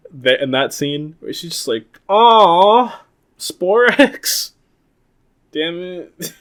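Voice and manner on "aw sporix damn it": high mock groan; flat annoyed quote. Pink Ranger fed up with the monster, high mock groan. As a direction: groan it like a bored actress. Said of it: "I like the line delivery".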